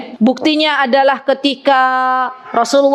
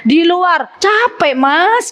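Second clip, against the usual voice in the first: higher, drawn-out complaining excuse; wife dodging her husband's request, higher and slow; excuse-making wife; 4 semitones higher, much slower than usual. Retold or imitated. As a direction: dodge the husband with a tired excuse. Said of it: "nggak boleh ngeles".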